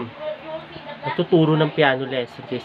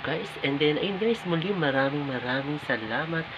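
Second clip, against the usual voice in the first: hushed late-night voice; quiet at night; 2 semitones lower, 5 dB quieter than usual. Real, not acted. Others asleep, night sign-off.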